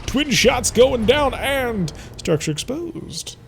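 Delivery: slow, high, stretched-out announcement; dramatic battle call. Pretend. Gamer calling twin shots going down, dramatic. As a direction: draw out each hit with rising drama.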